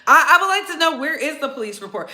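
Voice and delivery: laughing. Real, not acted. Laughing while asking.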